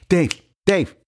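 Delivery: groggy and confused; knocked-out player asking about the catch; dazed teammate scene. Retold or imitated.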